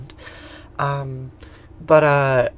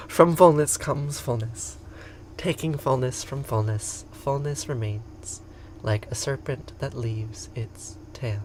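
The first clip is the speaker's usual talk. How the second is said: slow, measured recital fading away; spoken prayer; 6 dB quieter, slower than usual. Acted. Finishing the prayer of fullness for listeners, measured prayer. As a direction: let the prayer sink to a near whisper at the end.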